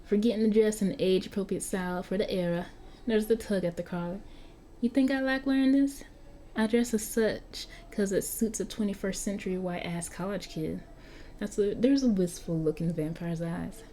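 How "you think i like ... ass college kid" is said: lightly voiced young London vampire, a bit indignant; Marky the vampire. Game master as Marky, grumbling to the player about clothes. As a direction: grumble about the clothes like a centuries-old teen.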